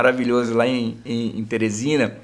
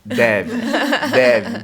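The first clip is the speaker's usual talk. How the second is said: laughing; 3 semitones lower, 4 dB louder than usual. Retold or imitated. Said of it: "Eu respondo".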